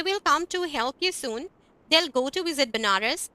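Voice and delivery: slow, careful example sentences; slow teacher model sentences; slow demo reading. Shown as a demonstration. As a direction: read it out slowly for the class. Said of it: "हम इस तरह से बोलेंगे".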